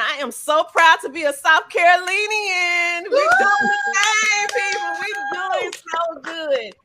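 high, loud, slowed proud cheer; proud excitement. Real, not acted. Host cheering for South Carolina, proud excited cheer. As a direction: celebrate the home state.

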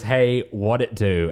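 drawled easy hello; lazy, laid-back hey; slow casual greeting. Retold or imitated. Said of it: "he goes".

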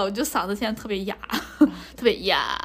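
hoarse from cheering. Real, not acted.

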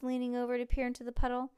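usual speaking voice

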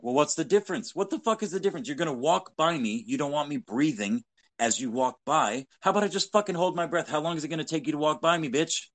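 ranting in disbelief, pitch climbing; mock exasperated rant. Retelling his mocking reply to the masked woman, high and incredulous. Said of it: "I'm like".

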